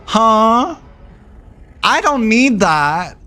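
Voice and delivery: high, incredulous acted outburst; worked-up retelling of a fed-up reply; indignant refusal. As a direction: refuse it in exasperated disbelief, pitch way up.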